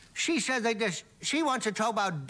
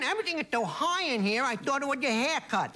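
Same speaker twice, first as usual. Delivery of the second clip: retelling the punchline; 3 semitones higher than usual. Shown as a demonstration. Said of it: "it's hard to say".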